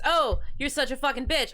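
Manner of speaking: mock insult. Imitates a catcaller's insult.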